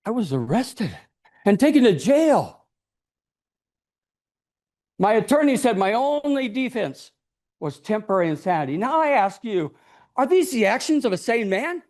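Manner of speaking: plain reading voice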